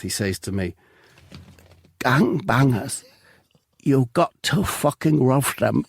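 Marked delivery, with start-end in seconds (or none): 2.0-5.8 slow, strained last words of a dying man; dying breath. Acted. Narrator voicing the shot man's dying words, slow and spent. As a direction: gasp it out slowly like your final breath. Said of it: "with what seems like his dying breath".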